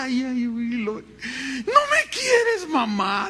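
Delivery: put-on high, slow sobbing child's whine; whiny crying child. Pastor imitating a crying child who feels unloved. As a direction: wail it like a spanked little kid. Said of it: "Entonces el niño chilla".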